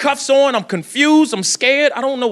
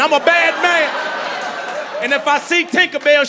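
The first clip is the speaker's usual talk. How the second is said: slow, drawn-out bad-guy boast; villain voice; 4 semitones higher, slower than usual. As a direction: ham up the pirate villain. Plays villain in Neverland.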